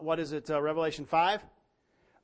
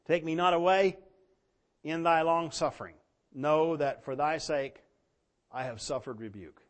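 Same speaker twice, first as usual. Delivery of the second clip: scripture reading. Acted. Reads verse fifteen.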